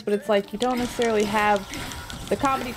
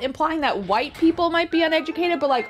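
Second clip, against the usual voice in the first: higher-pitched mock protest; retold disbelief, voice pitched up in objection; incredulous retort; 5 semitones higher than usual. Student objects to teacher's note on Southern characters, incredulous.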